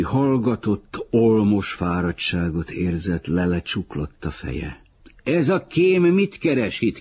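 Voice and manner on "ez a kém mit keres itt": shrill high yell, much louder; high-pitched shout. A narrator's reading. Someone in the crowd shouting a high-pitched accusation at Uri. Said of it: "kiáltotta valaki magas hangon".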